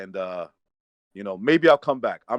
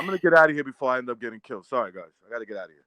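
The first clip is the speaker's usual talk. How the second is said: hurried exit; much faster than usual. Acted. Fleeing the rioting arena.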